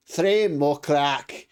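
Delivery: a hint of a gruff half orc barkeep, slow; bartender voice. GM voicing the half orc bartender to the players, slow and loud.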